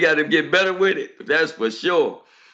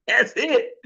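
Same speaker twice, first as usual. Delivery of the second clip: "That's it." laughed out, higher and lighter; amused echo of the catchphrase; laughing repeat; 5 semitones higher than usual. Real, not acted. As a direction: chuckle through "That's it".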